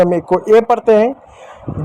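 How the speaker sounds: a hint of a child, slowly; drawn out like a pupil guessing; slow child's answer. Teacher imitating a pupil's slow answer. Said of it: "कुछ कहेंगे".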